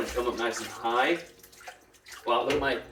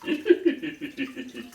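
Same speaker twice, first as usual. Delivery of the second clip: little giggle; 4 semitones higher than usual. Retold or imitated. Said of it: "lovely little giggle".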